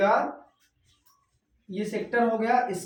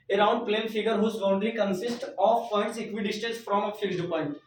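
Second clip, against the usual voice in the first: slow dictation; much slower than usual. Shown as a demonstration. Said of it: "reads definition slowly".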